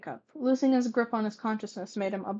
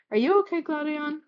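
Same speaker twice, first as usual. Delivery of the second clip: asked softly; 7 semitones higher, 4 dB louder than usual. Acted. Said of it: "Harlan asked softly".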